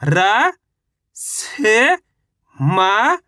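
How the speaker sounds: र, से, म said one at a time with pauses; letter by letter. Shown as a demonstration. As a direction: sound out र से म slowly like a teacher. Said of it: "चलिए एक बार फिर से देखिए". (र से म एक एक अक्षर रुककर बोलना)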